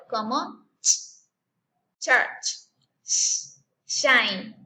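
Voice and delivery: "church" with ch, "shine" with sh, each drawn out; digraph sounds shown. Shown as a demonstration. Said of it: "hacen un solo sonido".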